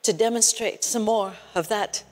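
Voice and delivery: soft, sorrowful near-murmur; hushed gentle rebuke. Retold or imitated. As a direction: quietly voice a tender reproof with long pauses. Voices Holy Spirit's gentle rebuke.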